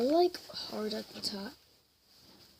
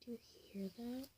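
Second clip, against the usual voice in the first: hushed, quick whispered question; whispering; 17 dB quieter, much faster than usual. Real, not acted. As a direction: whisper it fast, listening closely. Asks again while cutting.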